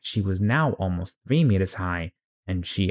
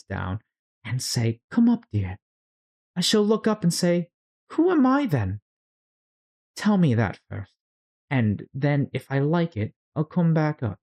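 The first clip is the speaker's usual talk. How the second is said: put-on much higher, puzzled little-girl voice; bewildered Alice; 7 semitones higher than usual. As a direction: wonder aloud who she is, high and lost. Alice voiced, tearful resolve.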